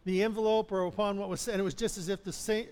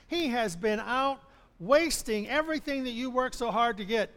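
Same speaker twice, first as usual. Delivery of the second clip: resentful complaint. Acted. Elder son complains to father.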